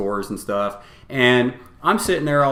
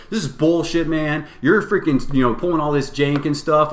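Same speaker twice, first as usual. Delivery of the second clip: higher-pitched huffy complaint; 5 semitones higher than usual. Retold or imitated. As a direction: mimic a miffed opponent griping. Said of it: "this guy starts getting huffy".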